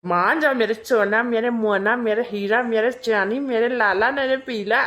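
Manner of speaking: sing-song coaxing with pet names; buttering her up. Acted. Husband coaxing wife into a saree, buttering her up. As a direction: wheedle with a string of endearments. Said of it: "polish लगाने की कोशिश".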